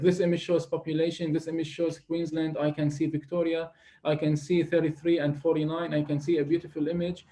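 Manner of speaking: listing keywords, choppy, no flow; reading aloud haltingly. Shown as a demonstration. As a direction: read out disjointed words one by one. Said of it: "don't simply read aloud the information".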